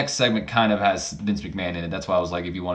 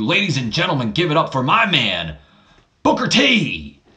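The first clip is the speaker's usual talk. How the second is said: imitating Shane McMahon. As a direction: hype up the crowd like the owner on the mic. Shane McMahon introduces partner in ring.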